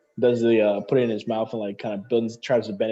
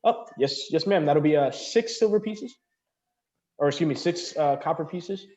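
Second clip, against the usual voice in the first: eager waiter; 5 semitones higher than usual. Acted. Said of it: "the waiter looks over to you and goes".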